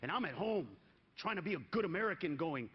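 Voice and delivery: ordinary talk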